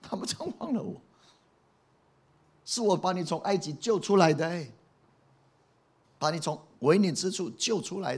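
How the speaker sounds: aggrieved, high-pitched pleading reproach; God. Acted. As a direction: pour out the hurt, pitched high and often loud. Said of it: "上帝的心是这样子的". (委屈又痛心地高声数落)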